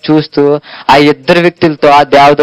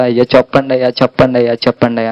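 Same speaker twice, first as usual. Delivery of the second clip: pleading cry; much faster than usual. Acted. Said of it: "మొర పెడుతుంది చాలా".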